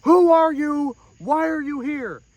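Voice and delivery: mock outraged mourner shouting; angry interruption. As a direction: cut him off with an indignant yell. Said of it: "He cut me up".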